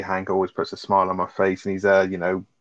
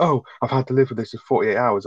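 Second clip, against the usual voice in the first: higher, whiny mock of Skylar; mocking self-pity; 4 semitones higher than usual. Host mocking Skylar making it all about her, whiny. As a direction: overplay her complaint to mock her. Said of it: "she's just making it all about her".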